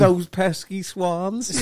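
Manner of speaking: slow, drawn-out mock villain; cartoon villain line. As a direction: drag it out like a foiled crook. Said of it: "What's that off?".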